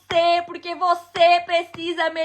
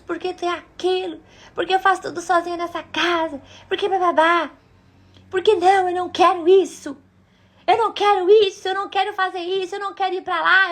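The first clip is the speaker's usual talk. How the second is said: mock angry nagging; much faster than usual. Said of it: "mas eu gritava".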